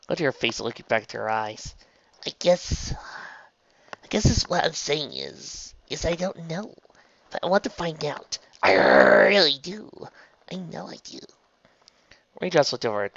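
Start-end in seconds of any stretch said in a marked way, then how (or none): 2.3-11.2 high, halting character voice; hesitant, earnest Trixie. A narrator's reading. Trixie tells Raindrops she wants to find out, earnest. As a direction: feel your way slowly towards a sincere admission.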